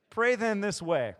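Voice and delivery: loud, high, slow proclamation; emphatic reading. Shown as a demonstration. Pastor proclaiming Jesus' words to congregation: loud and slow. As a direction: announce it slowly like a key verse.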